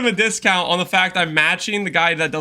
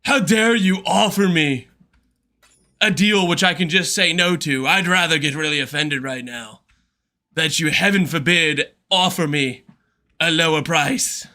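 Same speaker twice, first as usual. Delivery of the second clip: mock offended seller. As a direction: ham up a pompous offended seller. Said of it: "Some people are like".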